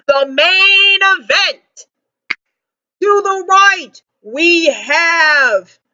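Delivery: slow, drawn-out fight-night intro; boxing ring announcer. Acted. Vlogger introducing the fighters, slow announcer call. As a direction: stretch each name like a ring announcer.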